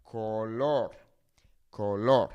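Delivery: color as co-LOR with pure o vowels; Spanish color, both o sounds full; color said as koh-LOR; Spanish pronunciation. Shown as a demonstration. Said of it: "now with this pronunciation focusing on the vowel sounds".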